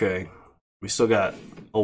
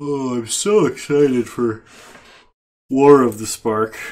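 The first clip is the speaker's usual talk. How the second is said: mock loud yawn stretching the words; 3 semitones higher, 9 dB louder than usual. Talking about upcoming Magic sets, said through a yawn. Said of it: "he says through a yawn".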